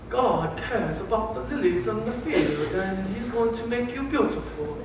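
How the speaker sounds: soft, slow put-on Borat accent; a quiet, drawn-out Borat imitation; mock Borat accent. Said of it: "from Australian to some European, Borats".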